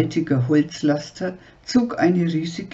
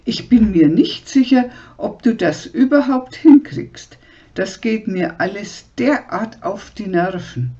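higher, louder scolding; shrill nagging; 4 semitones higher, 4 dB louder than usual. Acted. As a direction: nag him with open contempt. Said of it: "keifte sie".

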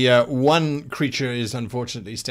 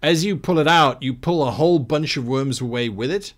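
game master narration; 4 dB louder than usual. A narrator's reading. Game master sets the scene.

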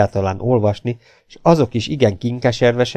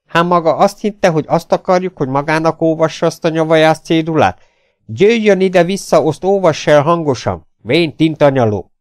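loud, high, indignant scolding; kiáltás; 7 semitones higher, 4 dB louder than usual. A narrator's reading. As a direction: berate the old man loudly. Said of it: "kiáltotta az a matróz". (ingerülten, hangosan leteremtve)

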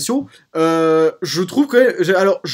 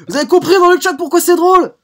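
laughing excited question; 11 semitones higher, 6 dB louder than usual. Real, not acted. Laughing, begging chat to laugh.

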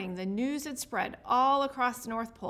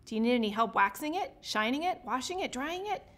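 eager rush. Acted. Rodney eagerly offering help.

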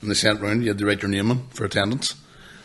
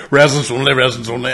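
playing dumb; 3 semitones higher, 5 dB louder, faster than usual. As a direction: act like you can't read the signs. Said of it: "acting dumb".

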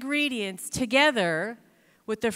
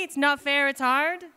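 whiny moaning; 3 semitones higher than usual. Retold or imitated. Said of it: "I moaned and groaned many times".

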